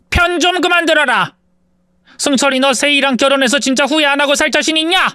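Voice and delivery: angry mother. A narrator's reading. Mother snapping at her son for siding with the bride. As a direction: snap at him to stop siding.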